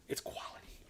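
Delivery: breathy whispered aside. Real, not acted. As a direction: whisper it like a secret. Aside after praising Sony.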